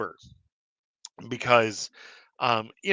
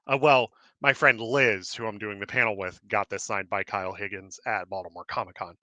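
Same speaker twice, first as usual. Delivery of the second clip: out of breath; 3 semitones lower than usual. Real, not acted. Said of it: "I'm a little out of breath here".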